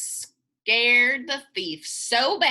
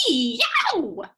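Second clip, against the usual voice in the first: shout; 4 semitones higher than usual. Acted. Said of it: "shouted the thief".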